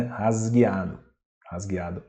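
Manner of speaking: "Rasgueado" with the s voiced as z. Shown as a demonstration. Teacher shows learners the Portuguese word, s voiced as z. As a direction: say "Rasgueado" with a buzzing z before the g. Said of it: "pronunciamos o Z".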